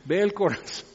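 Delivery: hushed, mock-awed dread; con miedo. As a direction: let the words land as a frightening realization. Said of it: "qué miedo". (con asombro temeroso, casi susurrado)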